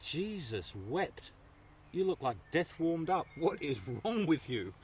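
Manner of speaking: slow, emphatic imitation of a dad; lightly voiced exasperated father, words drawn out; father's exasperation. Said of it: "I remember my father's exact words".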